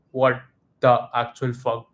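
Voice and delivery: slow, spaced-out retold shock; stunned disbelief. Crowd reacting after Martinez saved it, stunned disbelief. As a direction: weigh each word in mock stupefaction.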